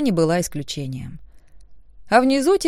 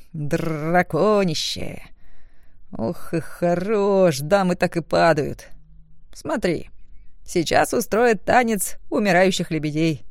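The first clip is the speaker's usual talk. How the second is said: elf. Acted. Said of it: "На интонацию нельзя было не среагировать".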